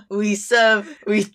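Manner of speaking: we serve in a botched mock Australian accent; failed Australian accent. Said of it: "I can't do the accent".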